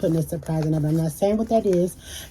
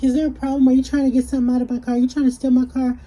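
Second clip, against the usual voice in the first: suspicious owner; 7 semitones higher, 4 dB louder, much faster than usual. Retold or imitated. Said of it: "she was like".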